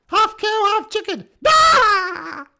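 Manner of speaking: loud jeering yell ending in a cry; taunting shout. Acted. Tree creature yelling insults at the party. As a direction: bellow the insult at them.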